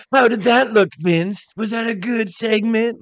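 high, rough, eager imitation of Triple H; Triple H swallowed glass voice. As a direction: ask like a wrestler craving praise. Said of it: "sounds like he swallowed glass".

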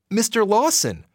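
put-on young man greeting a visitor; friendly greeting. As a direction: greet him warmly at the door. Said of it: "the man greeted Jessie".

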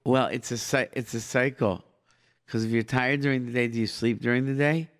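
usual speaking voice

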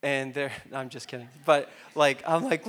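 ordinary talk, nothing marked

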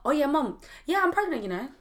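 light offhand "Oh yeah, mum", tossed away; casual. Retold or imitated. Telling her mum she's pregnant, mock casual. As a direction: drop it like it's nothing. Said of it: "I said it so casually".

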